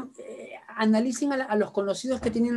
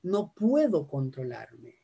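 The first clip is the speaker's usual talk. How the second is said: slow, drawn-out excuse, pitched lower; helpless excuse; 6 semitones lower, 4 dB quieter, slower than usual. Shown as a demonstration. Patient excusing lost temper, slow and drawn-out. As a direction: stretch out the claim of helplessness. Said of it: "lo real no es".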